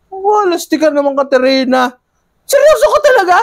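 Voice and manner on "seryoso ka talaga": high laughing "seriously?"; laughing disbelief. Real, not acted. Disbelief at one huge bucket.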